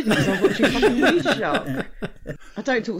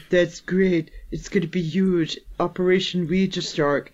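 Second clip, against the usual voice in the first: mock Trump impersonator; 4 semitones lower than usual. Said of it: "a Donald Trump person is like".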